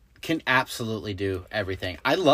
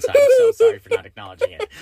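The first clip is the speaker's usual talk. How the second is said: high, quick laughter through words; laughing apology; 7 dB louder, faster than usual. Real, not acted. Co-host apologises for ignoring the accent, laughing. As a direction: apologise while cracking up, louder and faster.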